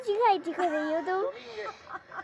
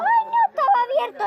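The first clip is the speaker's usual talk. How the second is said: surprised; 14 semitones higher, 7 dB louder than usual. Real, not acted. Finds the jar unopened.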